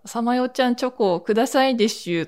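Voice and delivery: a hint of the spoiled rich boy's babyish lisp; lightly voiced Obocchama-kun. The narrator imagines the cartoon boy begging for chocolate, mock lisp. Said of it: "お坊ちゃまくんがさ".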